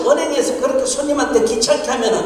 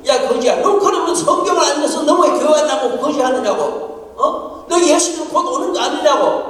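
mock angry retort; 5 semitones higher than usual. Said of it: "나도 이거 화가 나죠, 조금".

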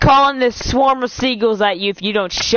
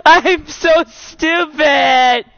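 mock crying; 3 semitones higher, much slower than usual. Hammed-up fake crying apology.

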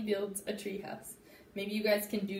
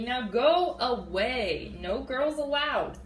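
bossy shooing; 5 dB louder, slower than usual. Acted. Froggy shooing sister away.

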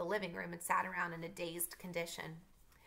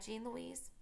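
soft, higher-pitched cautious question; tentative; 6 semitones higher, 6 dB quieter than usual. A narrator's reading. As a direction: test the water gently, voice lifted and small. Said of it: "he asked tentatively".

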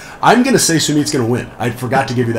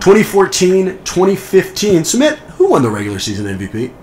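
game show host voice; 5 semitones higher than usual. Pretend. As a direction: call out the years like a quiz host. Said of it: "my canned game show host voice".

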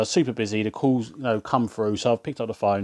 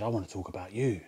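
low, hushed mock come-on; mock flirty; 3 semitones lower, 10 dB quieter than usual. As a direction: murmur it like a cheeky flirt. Retold flirty prank on caller.

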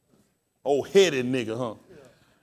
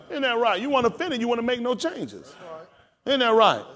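lively preaching, higher pitch; 7 semitones higher, faster than usual. Real, not acted. Preacher defending giving offense to make change, preaching. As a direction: press the point on the congregation.

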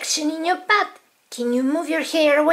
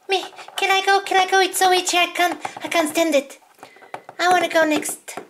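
higher, pleading voice of an itchy little doll; eager itchy patient; 5 semitones higher, much faster than usual. Acted. Doll patient begs the doctor to go next, eager and pleading. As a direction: beg to go next, can't stand the itch.

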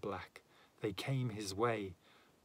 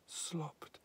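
a soft, higher hushed word; whispered; 5 semitones higher, 6 dB quieter than usual. A narrator's reading. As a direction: hush it in fright. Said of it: "She whispered".

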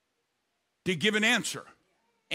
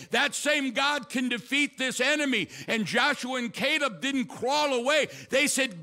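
driving, raised sermon cadence; impassioned preaching; 4 semitones higher than usual. Real, not acted. Preacher rallying the church with God's past victories, impassioned. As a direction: pile up each line with rising conviction.

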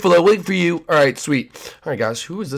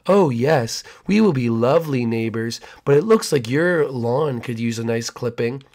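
creepy neighbor; 2 semitones lower than usual. Acted.

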